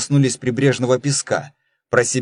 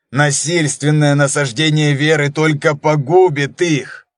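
pleading urgently; 2 semitones higher than usual. Acted. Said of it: "вскричал Дон Хосе".

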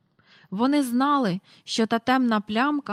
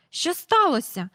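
high, startled ask; alarmed question; 8 semitones higher, 4 dB louder than usual. A narrator's reading. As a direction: rush out worried. Mrs Banks runs out alarmed. (стривожене питання місіс Бенкс)

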